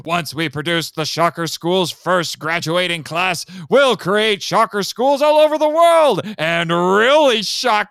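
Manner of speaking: rising into a loud villainous declaration; hammy villain. Retold or imitated. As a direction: build it up and shout the last words. Villain explaining evil plan.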